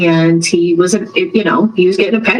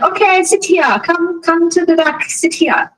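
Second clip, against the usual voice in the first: much higher, bossy nail salon lady; hammed-up nail tech waving him to the back; imitating salon women; 10 semitones higher than usual. Nail techs seat the odd customer, high mock voice.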